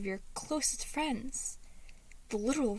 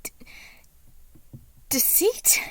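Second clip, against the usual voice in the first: much higher and louder, startled; startled cry; 8 semitones higher, 5 dB louder than usual. A narrator's reading. Patton startled to find Deceit in his corner, loud cry. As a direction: jolt at the sight of him.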